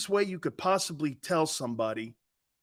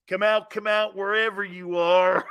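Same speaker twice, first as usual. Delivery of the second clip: lightly voiced singsong movie villain; a hint of taunting hide-and-seek call; Robert De Niro. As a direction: imitate a stalker calling out. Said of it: "the Robert De Niro's".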